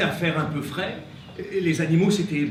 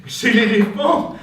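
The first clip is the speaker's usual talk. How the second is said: laughing; 4 semitones higher, 10 dB louder than usual. Acted. Elephant announced laughing.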